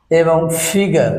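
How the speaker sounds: "ফিগার" said slowly, ending in an open vowel with no r; slow modelling. Shown as a demonstration. Teacher to students, saying the word slowly. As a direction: draw out "ফিগার" for the class. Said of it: "রটা উচ্চারণ হয় না".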